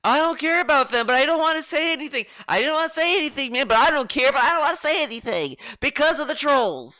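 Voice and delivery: high, fast whiny mock of the guy's excuse; mocking impression. Streamer mocks the guest's excuse to chat, high and fast. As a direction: rattle it off high and fast like a sulky kid.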